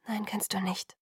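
breathy whisper, barely voiced; hushed whisper. A narrator's reading. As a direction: whisper it so no one overhears. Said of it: "Alice' Stimme wurde immer leiser". (geflüstert, kaum hörbar)

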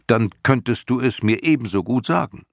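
put-on high, loud, insistent young voice; boy pleading insistently with the old creature; urging boy. A narrator's reading. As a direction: press her hard. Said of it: "drang Atreo in sie".

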